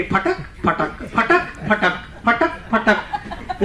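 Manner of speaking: slow, rhythmic mimicry of slapping slippers; imitated slipper flapping. Trainer mocks slippers heard from afar, imitated slow flapping. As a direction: mimic flip-flops slapping along, step by step. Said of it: "आधे kilometre से पता लगता है आ गया करके".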